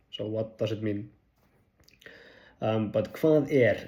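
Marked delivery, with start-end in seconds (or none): 3.1-3.9 casual teaching repeat; Icelandic phrase demo. Shown as a demonstration. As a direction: recall "Hvað er" as the key phrase. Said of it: "is the most simple one".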